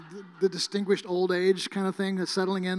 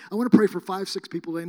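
mock prayer; 9 dB louder than usual.

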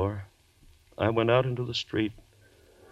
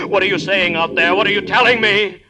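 loud, higher desperate shout; frantic shout; 9 semitones higher, 11 dB louder than usual. Acted. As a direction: scream at the voices outside. Daryl shouts at voices.

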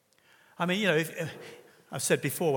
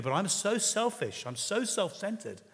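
so drawn out higher and slow; stress on so; 6 semitones higher, slower than usual. Shown as a demonstration. Preacher showing how to confess to a friend, slow stress on so.

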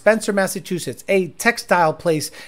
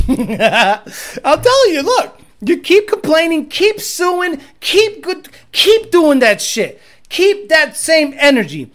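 mock threatening rant; 7 semitones higher, 5 dB louder, slower than usual. Ranting mock threat at workers.

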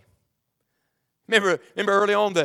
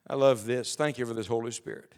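quiet thanks; 8 semitones lower, 8 dB quieter than usual. Real, not acted. Aside prayer of thanks.

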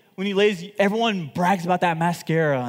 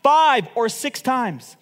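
higher, louder and slow rebuke; angry prophet; 8 semitones higher, 6 dB louder, slower than usual. Retold or imitated. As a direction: scold the king for quitting. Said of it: "The holy man became angry".

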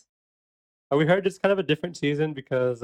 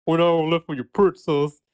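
put-on New York accent; 3 semitones higher, 4 dB louder than usual. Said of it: "she has to do a New York accent".

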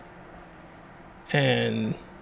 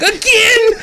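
mock disbelief. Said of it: "And I was like".

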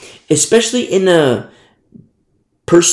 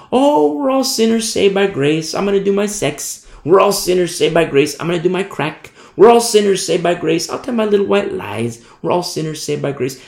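mocking excuse; 3 semitones higher than usual. Mocking careless Christians' excuses.

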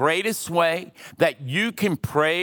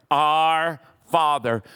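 reverent, slow; slower than usual. Shown as a demonstration. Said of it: "the first two words of this prayer".

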